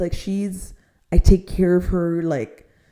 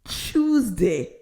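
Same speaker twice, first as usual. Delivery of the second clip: mocking tone; 2 semitones higher, 5 dB quieter than usual. Real, not acted. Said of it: "I'm gonna say it like that".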